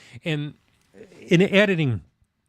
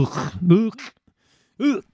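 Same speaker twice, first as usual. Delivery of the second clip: disgusted groans; 4 semitones higher, slower than usual. Retold or imitated. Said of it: "that's what that makes me wanna do".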